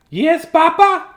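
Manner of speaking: high, loud chirpy chick; chicken voice. Acted. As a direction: promise eagerly in a squeaky chick voice. Chick answers father.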